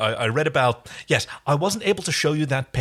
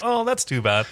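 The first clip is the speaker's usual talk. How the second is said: mock disappointment; 10 semitones higher than usual. Voicing partygoers' mock disappointment.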